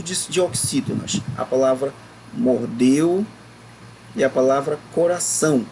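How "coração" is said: coração with the final "ção" stressed; stress on last syllable. Shown as a demonstration. Teacher showing pupils an oxítona, stress on the "ção" of coração. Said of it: "o são é mais forte".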